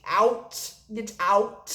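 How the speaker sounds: worked-up retelling of kicking someone out; angry all over again. Retold or imitated. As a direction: relive the anger, rushed then punched out. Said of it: "Sorry, got angry all over again".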